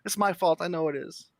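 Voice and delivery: squeaky guilty little gnome; little gnome woman. Acted. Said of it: "She goes".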